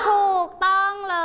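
high, triumphant teacher reveal; excited announcement. Real, not acted. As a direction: celebrate the right answer with the class. Teacher announcing correct answer. (ประกาศคำตอบเสียงสูงอย่างตื่นเต้น)

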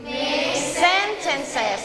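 slow, careful "make sentences"; slow model phrase. Shown as a demonstration. Teacher asking pupils to repeat, slowly. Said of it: "one more time".

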